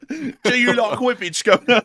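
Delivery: loud cheeky British marmot. Acted. Marmot offering whippets to the Governor, high cheeky British accent. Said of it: "all of our marmots are British".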